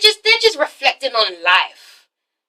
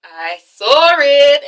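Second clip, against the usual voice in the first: hammed-up giddy, drawn-out words; 4 dB louder, much slower than usual. Boyfriend telling girlfriend what he found, giddy. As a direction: stretch it out with mock giddiness. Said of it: "He's acting all giddy".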